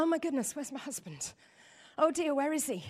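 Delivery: imitating a worried whisper to herself; lightly voiced anxious wife; mock panic. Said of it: "and she panics".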